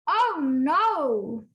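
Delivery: mild sorrow on the opening oh no; sad news. Shown as a demonstration. Teacher modelling Lucia's sad line for students to repeat. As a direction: read the bubble with a touch of grief. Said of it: "I'm going to read one speech bubble".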